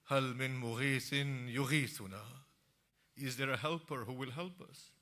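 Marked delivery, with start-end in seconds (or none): 0.0-2.4 crying out. Acted. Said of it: "he cries out".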